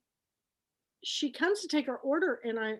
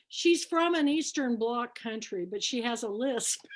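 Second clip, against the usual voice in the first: deadpan. Retold or imitated. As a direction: imitate a friend's straight-faced verdict. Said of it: "he said that with a straight face".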